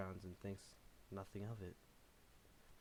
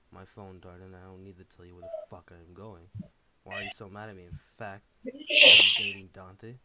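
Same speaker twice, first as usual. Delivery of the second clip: raised, hurt protest rising to a shout; yells; 19 dB louder than usual. Acted. Takashi yelling at Davey while defending himself. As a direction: argue back, getting louder. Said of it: "Takashi yells".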